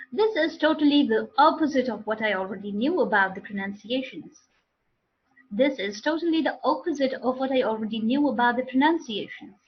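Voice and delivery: opposite with an open "ah" in the model sentence; opposite modelled with opened O; correct pronunciation. Shown as a demonstration. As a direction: say opposite as "ah-puh-zit". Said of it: "What are the correct pronunciations then?".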